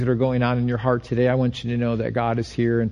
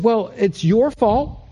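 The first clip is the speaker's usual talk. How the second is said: slow, sweetly exaggerated politeness; mock nice; 6 semitones higher, slower than usual. Pastor retelling his Amazon chat, mock polite. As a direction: lay the fake niceness on slowly. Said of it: "Very nicely".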